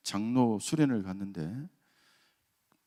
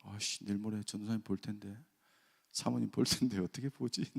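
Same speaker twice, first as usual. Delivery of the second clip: embarrassed mutter; 3 semitones lower, 6 dB quieter than usual. Retold or imitated. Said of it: "너무 부끄럽고요".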